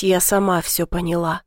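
usual speaking voice

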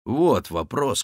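usual speaking voice

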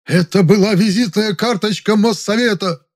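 furious roar. Acted. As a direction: bellow in offended pride. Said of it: "взревел Завадский".

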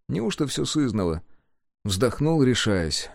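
ordinary delivery, nothing marked

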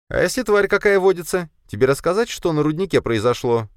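high woman's voice, uneasy warning; nervous woman searcher. Acted. The woman warns her partner about the beast at the mine, high and uneasy.

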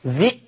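ذي cut short by a glottal stop; short i, then hamza, in ذي; still hamza. Shown as a demonstration. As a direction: say ذي as "dhi'" for listeners to hear. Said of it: "سامعين صوتي؟".

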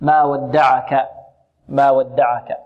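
slow ما ودعك with every letter kept thin; measured, thin-voweled ما ودعك; light letters. Shown as a demonstration. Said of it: "الكلمة كلها مرققة".

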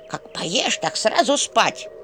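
put-on slow, firm old woman's order; commanding granny. A narrator's reading. Old woman ordering Vasilisa to sleep after eating. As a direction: lay down the rule like a strict granny. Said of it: "скомандовала старуха".

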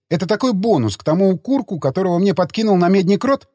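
lively, exasperated telling-off; indignant tirade. Acted. Woman berating two men over the drunk she must nurse, indignant. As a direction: pile up sarcastic reproaches. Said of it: "продолжала негодовать Рита".

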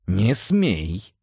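firm warning order; commanding. A narrator's reading. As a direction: forbid it with authority. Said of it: "ещё раз приказал я". (строгий приказ)

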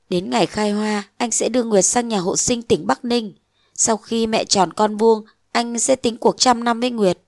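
calm her down gently; soothing lover. Acted.

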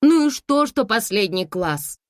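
high, loud retort; objecting daughter. A narrator's reading. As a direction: push back at mother's worry. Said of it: "возражала Анюта". (дочь возражает матери)

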